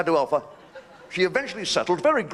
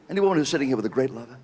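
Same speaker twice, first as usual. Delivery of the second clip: fast repeated question; 5 semitones lower, much faster than usual. Shown as a demonstration. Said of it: "repeats the question".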